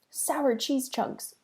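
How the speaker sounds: slow, drawn-out startled cry; shocked exclamation. Acted. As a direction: gasp it out in disgust.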